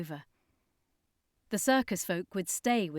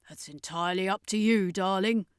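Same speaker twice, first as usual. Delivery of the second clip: Carleen; 4 dB louder than usual. A narrator's reading. Carleen voiced.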